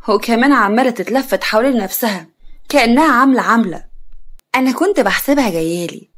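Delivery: mocking aunt, drawing out the jibe; sarcastic. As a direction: needle her with mild sarcasm. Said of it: "خالتها بسخرية".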